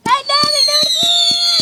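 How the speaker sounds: loud high call to dad. Real, not acted. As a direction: shout it across the yard. Child calling out to dad.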